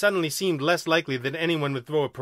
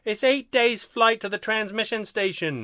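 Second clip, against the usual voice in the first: higher-pitched alien protest; 8 semitones higher than usual. A narrator's reading. Second alien objecting to the long flight, protesting. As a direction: protest in a raised, aggrieved voice. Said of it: "number two protested".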